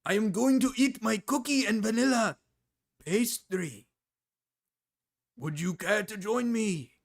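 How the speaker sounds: hammed-up Japanese accent, deliberate and halting; mock Japanese accent. Streamer poking fun at Mrao race playing, mock Japanese accent. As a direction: put on a caricature Japanese accent.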